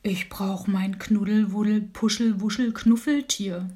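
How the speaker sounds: breathy stage whisper, secretive; bear whispering. Acted. Bear shares his cuddly-toy secret with the dormouse, whispering. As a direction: let him in on a big secret. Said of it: "und flüsterte".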